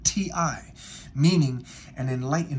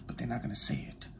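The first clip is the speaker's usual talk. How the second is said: soft, lower whispered aside; conspiratorial whisper; 4 semitones lower, 7 dB quieter than usual. Real, not acted. Telling viewers what the media hides, hushed whisper. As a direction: let it slip out as a secret.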